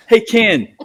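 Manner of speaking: high Virginia hills twang, amused; Billy Wagner. Retold or imitated. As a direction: imitate a pitcher's Virginia twang calling out. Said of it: "twang from Virginia".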